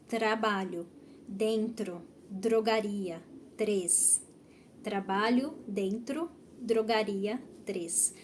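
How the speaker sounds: word-by-word list, tapped R in "trabalho", "dentro", "drogaria", "três"; careful teacher list, pausing after each word; model T-R and D-R. Shown as a demonstration. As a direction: articulate "trabalho", "drogaria" with a quick tongue-tap R. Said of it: "pronúncias que têm o som do T com R".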